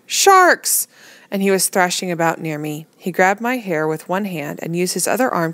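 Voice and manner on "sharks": high, loud panicked roar; frightened roar. A narrator's reading. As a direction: bellow the warning in fear. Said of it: "Timothy's frightened roar".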